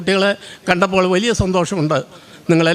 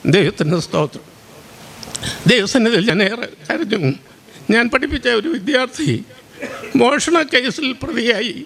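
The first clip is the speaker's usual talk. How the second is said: real grief catching in the throat; choked with sorrow. Real, not acted. Old teacher grieving over a student accused of theft, choked with sorrow. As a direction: speak emotionally, voice wavering with sorrow. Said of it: "തൊണ്ടയിട്ടിട്ടുണ്ട്. വളരെയധികം സങ്കടത്തോടെയാണ്".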